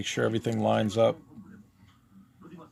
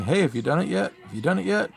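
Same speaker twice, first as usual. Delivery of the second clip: higher-pitched eager nagging voice; imitated pestering; 9 semitones higher, 4 dB louder, faster than usual. Artist mimics a fan who kept asking, pestering. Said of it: "this one person sort of kept asking".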